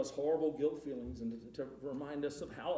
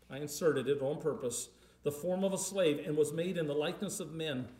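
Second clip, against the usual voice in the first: measured, formal Bible reading; solemn reading of Philippians to the congregation; scripture reading. Acted. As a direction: read the verses with reverence. Reads scripture passage aloud.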